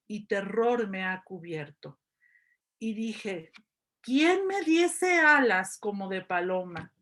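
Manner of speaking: measured, expressive psalm reading; scripture reading. Acted. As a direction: read the verse out solemnly, phrase by phrase, with pauses. Reads psalm verses aloud.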